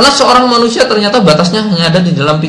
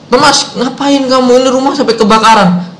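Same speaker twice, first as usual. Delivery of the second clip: mock-angry dad, pitched up; angry father; 7 semitones higher than usual. Father scolds Thomas over the house fire, mock angry. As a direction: imitate a father scolding, higher voice without shouting. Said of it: "papanya marah-marah".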